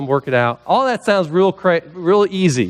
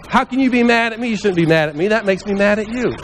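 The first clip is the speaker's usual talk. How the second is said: higher-pitched, put-on indignation; mock indignant retort; 4 semitones higher than usual. Answering someone's anger with anger, mock indignant. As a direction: act out an affronted comeback. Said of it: "throw some counter punches".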